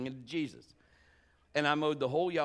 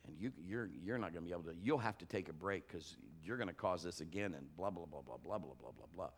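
enemy's nagging voice; 7 semitones lower, 8 dB quieter, faster than usual. Retold or imitated. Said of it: "the enemy is bombarding me".

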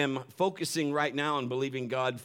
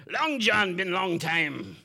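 a hammed-up old sea pirate, a bit higher and louder; 5 semitones higher, 5 dB louder, much slower than usual. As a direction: play a jolly pirate greeting his old mate. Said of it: "I'm gonna do my best pirate voice".

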